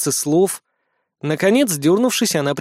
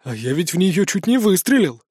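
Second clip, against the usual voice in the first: pensive. A narrator's reading. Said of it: "задумчиво произнёс Фёдор Иванович".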